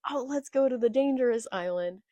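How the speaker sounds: lightly acted eager excitement; excited. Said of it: "Luffy got all excited".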